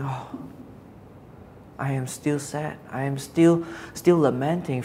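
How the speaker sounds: soft sigh into a subdued, mildly sad voice; sad lament. Acted. Preacher as Jeremiah answering God's promise, still sad and lamenting. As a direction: act out lingering sorrow, starting very quietly. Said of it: "Jeremiah hears all this".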